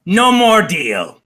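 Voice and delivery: slow, lightly voiced angry goblin boss; slow goblin pronouncement, pitch arching up then falling; Yek. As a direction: call off the bargain like an offended goblin chief. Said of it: "And then says".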